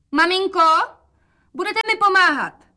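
bright call of an eager daughter; girlish voice. Acted.

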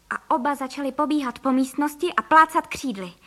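usual speaking voice

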